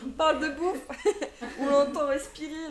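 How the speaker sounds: can't stop laughing while teasing. Real, not acted. Cohost laughing at the streamer's loud breathing, laughing hard.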